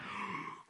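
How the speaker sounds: long airy sigh of release; relieved exhale. Acted. New convert feeling fresh after praying, relieved sigh. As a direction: breathe out as if newly unburdened.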